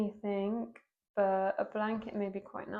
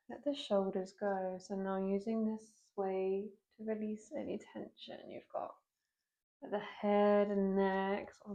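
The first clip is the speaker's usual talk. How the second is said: unhurried yoga teacher guidance with long pauses; guided yoga meditation. Real, not acted. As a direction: guide them gently into breath and movement, leaving space between phrases. Leads a seated yoga meditation.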